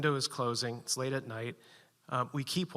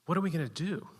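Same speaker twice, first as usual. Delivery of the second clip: plaintive; 4 semitones higher, faster than usual. Retold or imitated. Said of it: "Betsy say kind of plaintively".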